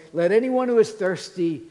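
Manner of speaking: Jesus calling loudly over the feast crowd. Acted. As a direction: call it out to the whole crowd. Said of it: "says in a loud voice".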